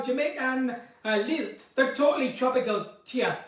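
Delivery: hesitant Jamaican lilt; poor Jamaican accent. Shown as a demonstration. Admitting she can't do it, poor Jamaican accent. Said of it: "I can't do Jamaican".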